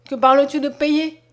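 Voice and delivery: loud, offended question; indignant exclamation. A narrator's reading. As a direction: protest loudly at the very idea. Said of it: "s'écria Mariette".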